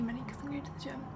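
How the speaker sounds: talking between bites; bites almond while talking. Real, not acted. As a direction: mouth partly full. Seen 3: almond held at lips, bitten at 1.4-1.6, then held.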